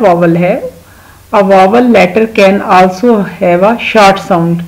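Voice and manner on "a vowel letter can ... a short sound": very slow, deliberate English dictation; slow rule reading. Shown as a demonstration. Teacher to young pupils, reading the rule very slowly. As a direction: read each word out slowly and clearly. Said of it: "teacher reads rule slowly".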